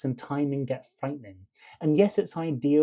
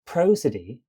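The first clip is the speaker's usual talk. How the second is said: "Prosody" with a strong first syllable and two light ones; dactyl stress; 4 dB louder than usual. Shown as a demonstration. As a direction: hit PRO in "Prosody", then ease off. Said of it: "is an example of an dactyl".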